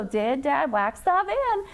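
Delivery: "Did Dad wax the van" word by word; choppy reading. Shown as a demonstration. Teacher shows Michaela what she need not do, choppy. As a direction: read each word separately, not joined up. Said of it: "You don't have to go".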